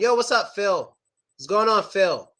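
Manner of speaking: "Phil" greeted casually with a W-like ending; casual American "Phil". Shown as a demonstration. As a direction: toss out "Phil" with no real L. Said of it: "like a little W sound".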